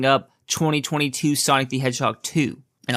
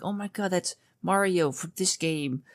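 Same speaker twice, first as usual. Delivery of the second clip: put-on excited kid; 6 semitones higher, 6 dB quieter than usual. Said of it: "there'd be a kid that would be like".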